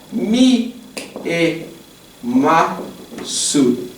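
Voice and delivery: mi e ma su said as slow separate syllables. Shown as a demonstration. Teacher splitting a verb into syllables. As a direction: space out "mi, e, ma, su". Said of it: "spelling out syllables".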